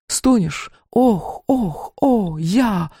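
teasing mock moans; mock moaning. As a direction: tease her with fake moans. Friend mocks moaning in sleep.

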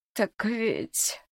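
put-on mumbling old woman. Cook stalls under questioning, mumbling crone. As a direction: mumble it evasively. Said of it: "пробубнила стрепуха".

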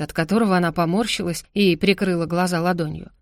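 usual speaking voice

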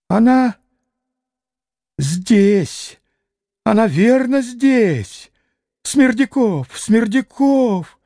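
high, slow rasping old man, barely voiced; a feeble old man wheezing a call. A narrator's reading. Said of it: "чуть слышно хрипел старик".

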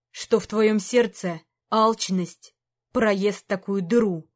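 put-on the old king reproaching his knight, heavy and stern; disappointed king. King's voice again.

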